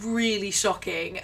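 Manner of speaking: slow, drawn out; slow emphatic. Real, not acted. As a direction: stretch every word.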